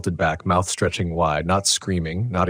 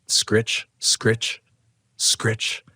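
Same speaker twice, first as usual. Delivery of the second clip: higher-pitched imitation of pencil scratching; imitated scratching; 4 semitones higher, much slower than usual. A narrator's reading. Narrator at the bathroom door, imitating the scratching he hears. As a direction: voice each scritch as a separate scrape. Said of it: "a faint scratching, like pencil on paper".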